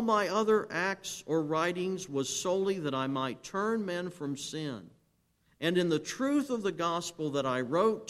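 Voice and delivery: loud defiant reply. Retold or imitated. Preacher voicing Huss's last defiant words to the council, loud and ringing. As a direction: proclaim it like a martyr facing the council. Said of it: "replied in a loud voice".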